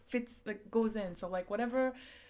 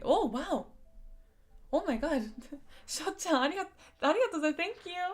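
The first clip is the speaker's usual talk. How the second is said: overwhelmed thanks; 6 semitones higher than usual. Real, not acted. Streamer thanking a viewer for a wish list gift, gushing. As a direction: bubble over with real gratitude. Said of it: "I'm gonna turn red".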